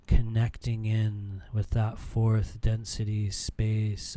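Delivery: calm, steady meditation guide; guided meditation. Acted. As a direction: lead the group breathing calmly. Leads a breathing meditation.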